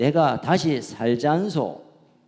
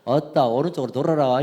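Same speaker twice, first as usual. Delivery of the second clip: Jeolla dialect; 2 semitones lower, faster than usual. Pretend. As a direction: play a Jeolla-dialect navigation voice. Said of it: "제가 전라도 버전 해가지고". (전라도 사투리 내비 흉내)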